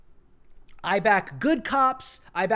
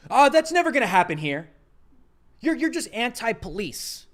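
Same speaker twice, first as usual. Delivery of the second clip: mocking conservatives; 3 semitones higher, 5 dB louder than usual. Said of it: "and they say".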